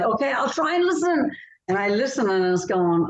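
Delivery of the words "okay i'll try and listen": higher, reluctant give-in; grudging concession. Retold or imitated. Author retelling giving in to her editor, grudging. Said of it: "And it's like".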